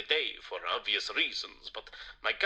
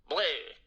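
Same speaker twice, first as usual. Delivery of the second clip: mock vampire bleh. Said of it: "Can't you tell?".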